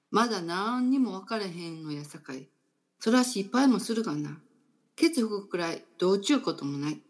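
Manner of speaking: a light, unsure try at Osaka dialect, "ケツ吹くくらいどうちゅうこともない" in Kansai lilt; halting Osaka dialect. Shown as a demonstration. Host reading a blog example to a listener, in mild Osaka dialect. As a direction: read the Osaka dialect line as a learner attempting it. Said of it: "うまいこと大阪弁で言えませんが".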